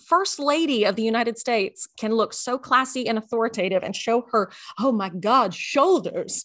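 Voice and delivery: high, outraged mock rant; high indignant rant at the dress code; indignant quote. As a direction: act baffled and fed up with the rule. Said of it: "we were like".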